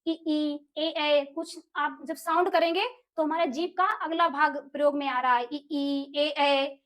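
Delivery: ई, ए, ऐ sounded out with the tongue forward; vowel demo. Shown as a demonstration. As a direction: sound each vowel for the class to copy. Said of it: "अब बोल के देखेंगे". (स्वरों का उच्चारण करके दिखाना)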